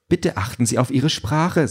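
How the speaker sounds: high-pitched prim reproach; indignant drone. A narrator's reading. Drone rebukes Peter for swearing, indignant. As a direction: scold as an affronted service robot. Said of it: "sagt die Drohne empört".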